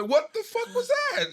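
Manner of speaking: loud, high, drawn-out disbelief; shocked outburst. Retold or imitated. Retelling shocked reaction to a hit.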